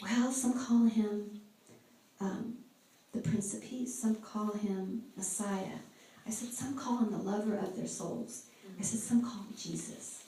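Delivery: soft and slow, each name laid down gently; reverent slow reveal. Retold or imitated. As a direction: build to the name with hushed awe.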